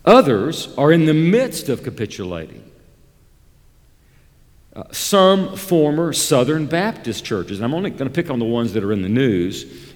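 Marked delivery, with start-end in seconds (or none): 4.9-7.6 "former" leaned on, slightly slow phrase; stress on former. Real, not acted. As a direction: set "former" apart with clear emphasis. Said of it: "I emphasize the word former".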